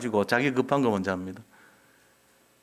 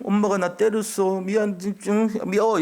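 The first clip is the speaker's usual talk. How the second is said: put-on high, slow sulky child's whine; whiny child; 8 semitones higher than usual. Pastor imitating a small child whining that mom hit him. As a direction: pout it out like a scolded little kid. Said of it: "이러면서 이 수준이라".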